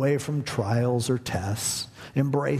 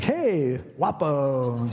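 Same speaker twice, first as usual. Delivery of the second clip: stranger calling out; much slower than usual. Retold or imitated. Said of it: "It's just like".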